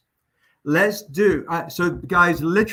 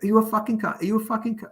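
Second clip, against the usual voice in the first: put-on higher, snarling English accent, half-cut swear; a raised mock English threat; 8 semitones higher, much faster than usual. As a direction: channel an angry English bloke in a pub brawl. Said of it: "I became apparently very English".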